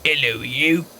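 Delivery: British YouTuber greeting; cheery British presenter voice; Guru Larry impression. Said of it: "I'm Guru Larry".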